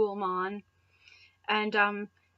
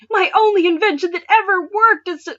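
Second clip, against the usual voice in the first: higher and louder lament; despairing wail; 9 semitones higher, 10 dB louder than usual. Acted. Clement mourning his helmet, a higher, louder wail. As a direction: cry it over the wreckage.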